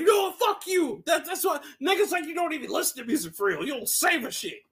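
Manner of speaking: pitched high, hammed-up outraged rant; imitating an angry friend. Retelling his friend's insults, a high hammed-up rant. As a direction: rant like a friend whose music was insulted.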